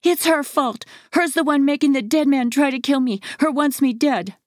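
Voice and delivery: high, frantic accusing screams; shrieking. A narrator's reading. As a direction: shriek in panic at the mother. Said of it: "Devin shrieked".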